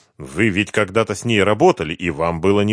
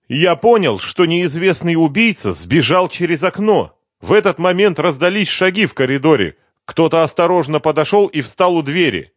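high-pitched, agitated confession; frightened suspect; 8 semitones higher, 5 dB louder than usual. A narrator's reading. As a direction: blurt out your account, voice pitched up. Frightened suspect tells his account.

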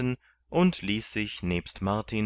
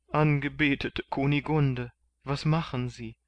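sobbing; 7 semitones higher than usual. A narrator's reading. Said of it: "fragte Kandid schluchzend".

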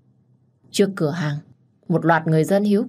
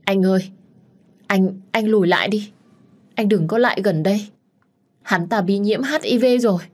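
frightened pleading, a touch higher; tearful stammer; 4 semitones higher than usual. Acted. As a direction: beg him to step back, sobbing. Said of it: "miệng không ngừng lắp bắp". (lắp bắp nức nở van xin)

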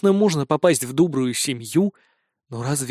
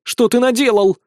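desperate cry; 7 semitones higher, 5 dB louder than usual. A narrator's reading. Cat woman devastated by loss.

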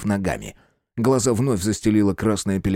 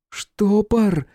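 calling out; 11 semitones higher than usual. A narrator's reading. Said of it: "донёсся голос девушки, словно сквозь вату".

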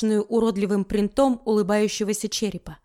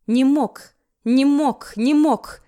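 louder and louder denial; rising hysterical cry; 3 semitones higher, 5 dB louder, much slower than usual. Acted. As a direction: build into hysterics. Истерика над отцом. (нарастающая истерика)

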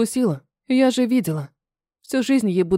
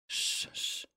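put-on whispered shh to hush a baby; soft shushing; 18 dB quieter than usual. A narrator's reading. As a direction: hush the crying child with a long shh. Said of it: "Шепчу дочь". (тихое шиканье шёпотом)

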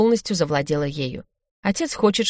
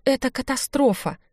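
lamenting; 8 semitones higher than usual. A narrator's reading. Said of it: "запричитала Изабелла".

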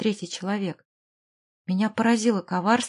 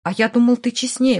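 louder, emphatic comeback; parrying retort; 3 semitones higher, 7 dB louder than usual. A narrator's reading. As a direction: throw the reproach straight back. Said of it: "парировал Клюкин". (громко парируя, с нажимом)

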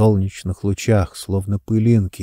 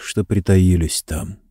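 usual speaking voice

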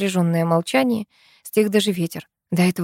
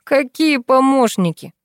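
raised, exasperated outburst; higher, indignant holler; angry yell; 7 semitones higher, 4 dB louder, slower than usual. A narrator's reading. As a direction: snap back loudly at an idiot. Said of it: "заорал Фёдор".

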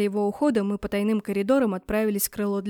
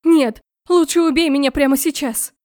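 loud desperate wail; wailing scream; 3 semitones higher, 7 dB louder than usual. Acted. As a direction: scream it in despair. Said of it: "завопила я".

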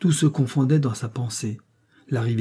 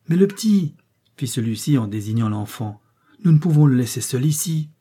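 urgent objection. Acted. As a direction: insist the child can't be left. Toho objects about the child.

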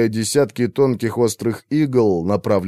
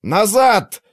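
shout over wind; 11 semitones higher than usual. A narrator's reading. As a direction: shout to be heard in the storm. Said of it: "пытаясь перекрыть вой ветра, закричал Артур". (Артур кричит сквозь вой ветра)

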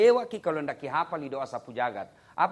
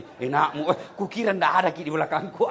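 mock scolding; 7 dB louder, faster than usual. Wife scolding him, caught.

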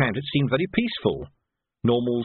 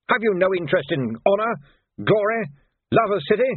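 higher, louder lofty appeal; indignant major; 9 semitones higher, 3 dB louder than usual. Acted. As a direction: preach about honour. Major lectures boy.

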